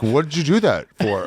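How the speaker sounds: high-pitched alarmed outburst from the guide; shocked guide. Retold or imitated. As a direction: guide yelps in disbelief, way up high. Guide keeps scolding.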